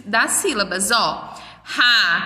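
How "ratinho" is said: RATINHO broken into syllables, a pause after each; split into syllables. Shown as a demonstration. Teacher counting syllables for children, split into syllables. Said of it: "vou contar o número de".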